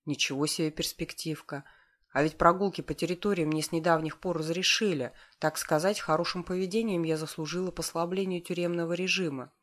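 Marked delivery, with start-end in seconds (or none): none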